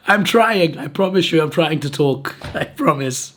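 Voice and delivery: high strained croak; squeezing words out of a sore throat; mock strained voice. Himself answering a coworker, strained high voice. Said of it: "I'm just like".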